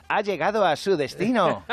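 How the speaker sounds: a sing-song GPS announcing arrival, slowly; cheerful GPS voice. Retold or imitated. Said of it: "se alegra más".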